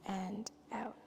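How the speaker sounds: soft, unhurried yoga-teacher voice with long pauses; guided yoga relaxation. Real, not acted. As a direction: ease them through each breath, softly. Leads calming yoga practice.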